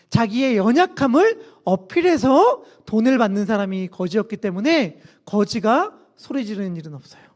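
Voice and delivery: ordinary delivery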